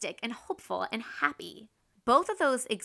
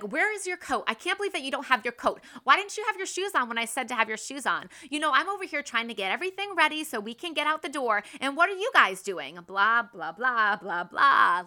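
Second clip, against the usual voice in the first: rapid, higher nagging tirade; mom rant; 4 semitones higher, 4 dB louder, faster than usual. Retold or imitated. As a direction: rattle off exasperated complaints, trailing into blahs. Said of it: "like, a mom rant".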